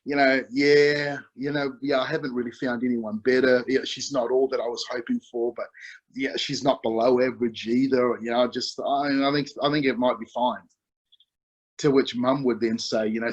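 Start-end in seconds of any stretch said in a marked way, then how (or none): 0.0-10.6 hint of a teen who can't be bothered; lukewarm son. Son tells dad his fiancée is fine, mildly indifferent. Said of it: "He's like".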